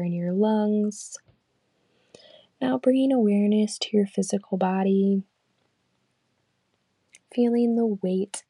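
calm, unhurried meditation guide; guided meditation. Acted. Leading listeners through a body scan, calm guided meditation. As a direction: lead them gently through the body scan, leaving long pauses.

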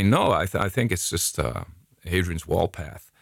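imitated American tourist's accent. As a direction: answer in a put-on American accent. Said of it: "Okay, let's do the accents".

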